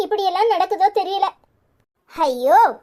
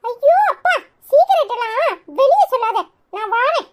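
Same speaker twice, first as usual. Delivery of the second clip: laughing; 6 semitones higher than usual. Acted. Caught out, laughing off.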